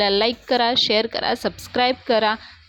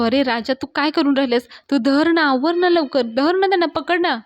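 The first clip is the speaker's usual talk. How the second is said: higher, louder, pressing yell; urgent yell; 4 semitones higher, 3 dB louder than usual. Retold or imitated. Friend yelling at Raja to grab her, urgent rising yell. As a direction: hurry him up, half-shouted and rising. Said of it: "पाण्या मात्र राजाला ओरडत असतो".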